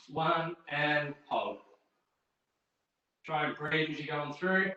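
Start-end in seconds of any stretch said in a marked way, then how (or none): 0.1-1.6 drawn-out coach call. Real, not acted. Coach counting down a plank.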